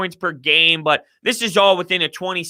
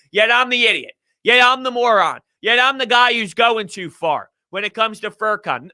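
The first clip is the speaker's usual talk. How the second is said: higher-pitched, aggrieved comeback; indignant retort; 4 semitones higher than usual. Real, not acted. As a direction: throw the blame back, pitched up. Indignant retort to his critics.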